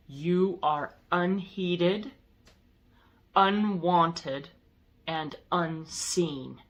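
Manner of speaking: slow, deliberate pronouncement with pauses; scary demonic being. Retold or imitated. Demonic gatekeeper turning away a visitor, lightly voiced scary being. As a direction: pronounce it slowly, word by measured word. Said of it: "he said in this very scary".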